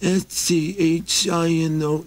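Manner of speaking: high, slow letter by letter; spelled out slowly. Acted. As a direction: spell each letter carefully. Maxie spells his name.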